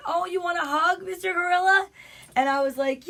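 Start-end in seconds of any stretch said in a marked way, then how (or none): 0.1-1.9 high, cutesy offer of a hug; animated friend. Retold or imitated. Friend coming in to hug the gorilla, animated. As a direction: coo at a costumed mascot, pitched up. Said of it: "she literally comes in".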